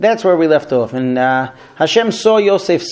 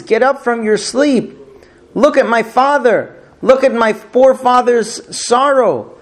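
higher, pleading lament with no actual sobs; weeping lament; 5 semitones higher than usual. Retold or imitated. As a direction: plead up to the dead mother, pitch lifted with grief. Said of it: "Yosef keeps weeping like this".

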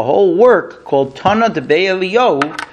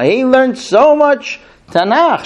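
lamenting widow; 8 semitones higher, slower than usual. Retold or imitated.

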